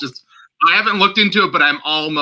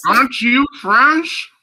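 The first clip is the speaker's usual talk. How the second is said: slow, much higher put-on French accent; co-host teasing her French name, hammed-up French accent; mock French accent; 12 semitones higher, 4 dB louder, slower than usual. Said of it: "do a French accent".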